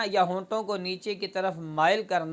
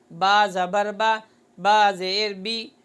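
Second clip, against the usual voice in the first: slightly stretched harakat; 3 dB louder, slower than usual. Shown as a demonstration. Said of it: "थोड़ा सा खींचना महसूस होगा".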